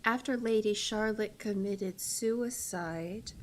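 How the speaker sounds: slow, measured narrator reading; story narration. Acted. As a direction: read it as a gothic tale's opening. Reads the game's story intro.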